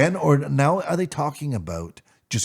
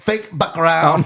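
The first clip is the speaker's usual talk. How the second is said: put-on Asian accent; 7 semitones higher, 5 dB louder, slower than usual. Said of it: "doing an Asian accent".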